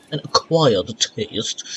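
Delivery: slow, stretched "acquired taste"; drawn-out ACQUIRED. Pretend. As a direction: drag out "acquired" in a put-on voice. Repeats the phrase, drawn out.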